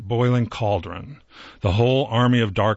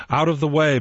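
bellowed; 6 semitones higher, faster than usual. A narrator's reading. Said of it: "bellowed Santa".

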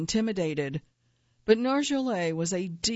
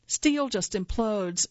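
assured; 3 semitones higher, slower than usual. Retold or imitated. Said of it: "she said with assurance".

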